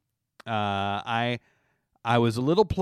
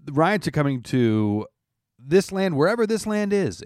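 louder and higher, hammed-up doomsday announcer; booming mock-apocalyptic warning to all listeners; mock doom warning; 5 semitones higher, 5 dB louder than usual. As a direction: proclaim it like a prophet of doom to the whole land.

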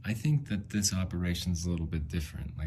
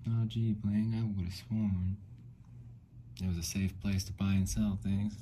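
put-on southern accent; 3 semitones higher than usual. Quoting a reply to the eBay warning in a light Southern accent. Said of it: "In a southern accent".

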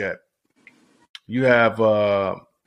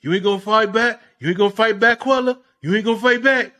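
lightly voiced taunting clown; a hint of a high mocking taunt; silly clown; 6 semitones higher, 3 dB louder than usual. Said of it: "Dude, that's your voice".

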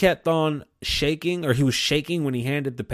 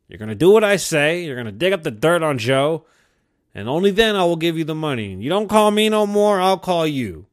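Trump's real meaning; 2 semitones higher, 4 dB louder than usual. Retold or imitated. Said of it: "What he really meant was".

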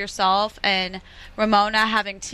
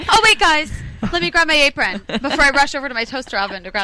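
mock urgency; 4 semitones higher, 5 dB louder than usual. Acting out a toaster-oven user.

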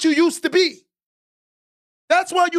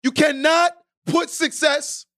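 slow emphatic; slower than usual. Shown as a demonstration. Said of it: "Let me say this again".

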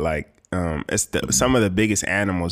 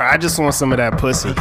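mock horny yell; 4 semitones higher than usual. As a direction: call it out like a horny guy banging on the door.

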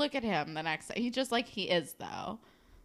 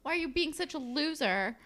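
higher, quick, mocking; taunting; 7 semitones higher than usual. Girlfriend scolding him about his friends, high mock taunt. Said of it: "She's like".

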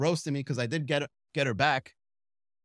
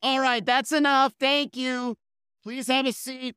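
higher, louder brisk shutdown; host cutting him off; 8 semitones higher, 4 dB louder, slower than usual. Retold or imitated. Host stopping his roast of the crowd. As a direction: end his turn firmly.

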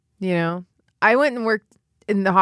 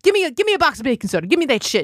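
funeral director impression; 7 semitones higher, much faster than usual. Funeral director panicking over his clean car, high frantic whine. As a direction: squeal it like a frantic little New York man. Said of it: "I'm like".

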